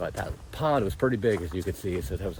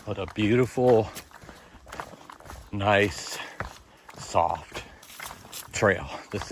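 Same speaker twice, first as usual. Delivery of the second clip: breath caught by sudden pain; losing breath mid-sentence from pain; catching breath midword; slower than usual. Real, not acted. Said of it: "Sorry, I lost my breath right there when I said".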